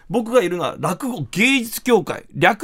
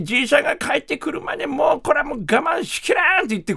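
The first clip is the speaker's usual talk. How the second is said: mock desperate cry; 7 semitones higher than usual. Grandma can't wait, eats all.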